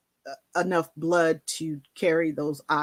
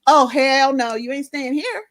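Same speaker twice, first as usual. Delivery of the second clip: bossy manager; 6 semitones higher, 6 dB louder than usual. Retold or imitated. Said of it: "She's like".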